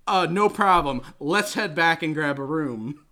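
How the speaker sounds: brash can-do leading man; confident Tom Atkins. Retold or imitated. Host retelling the movie hero, loud and cocky.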